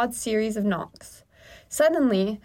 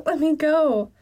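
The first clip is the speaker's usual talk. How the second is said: higher-pitched begging; pleading; 6 semitones higher, 3 dB louder than usual. A narrator's reading. Trapped narrator begs to be freed, pleading higher. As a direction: plead to be released, voice raised. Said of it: "I plead".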